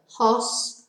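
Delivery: "hospital" split into three separate beats, hos, pi, tal; syllable by syllable. Shown as a demonstration. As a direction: break "hospital" into hos... pi... tal, pausing after each syllable. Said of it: "Three syllables".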